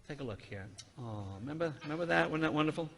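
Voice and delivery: softly sentimental, savoring a memory; mock fondness. Comedian showing the audience a family photo, softly mock-sentimental. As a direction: coo softly over a sweet photo.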